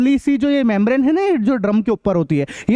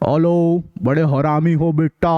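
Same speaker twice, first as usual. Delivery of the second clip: mock whisper into phone; 5 semitones lower, slower than usual. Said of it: "ऐसे बोल रहा है".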